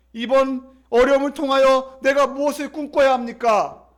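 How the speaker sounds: loud, urgent appeal to God; pleading prayer. Acted. Believer asking God what to repent of, pleading loudly.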